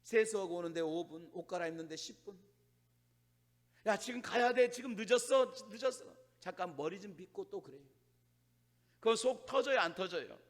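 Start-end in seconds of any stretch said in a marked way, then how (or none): 3.8-6.2 pressing, slightly raised parent voice; mock nagging. Parent hurries dawdling child to church, mock nagging. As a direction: hurry the child along with mild exasperation.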